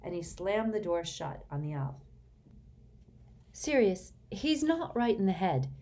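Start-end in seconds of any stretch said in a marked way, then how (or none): 3.5-5.7 louder, pleading plea. A narrator's reading. Hermione pleads with Sirius for the elf. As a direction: beg him to go easy. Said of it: "said Hermione pleadingly".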